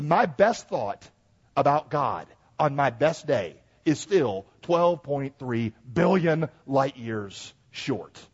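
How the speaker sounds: slow, spaced-out delivery sinking to a hush; weighty preaching. Real, not acted. Preacher measures his best thought against God, weighty preaching. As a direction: weigh each phrase, fading away at the end.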